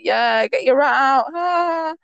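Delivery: slow mock jeer, rising into "ah"; drawn-out retold catcall; imitated laddish jeer. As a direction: jeer like schoolboys showing off. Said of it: "they'd be like".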